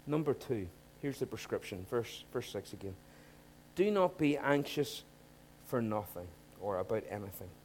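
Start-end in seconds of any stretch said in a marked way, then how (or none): 3.7-7.5 slow scripture read. Shown as a demonstration. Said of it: "Stop right there".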